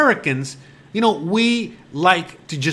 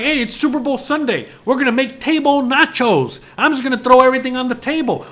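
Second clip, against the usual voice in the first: lightly voiced eager host, pitched up and faster at the end; a hint of a cheesy game-day host announcing a silly plan; mock party host; 5 semitones higher than usual. Mocking people who dump food on the table, in a mildly pitched-up eager voice. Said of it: "You know, like".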